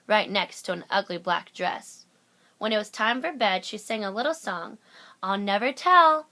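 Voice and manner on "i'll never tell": smiling to herself. A narrator's reading. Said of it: "she said to herself with a smile".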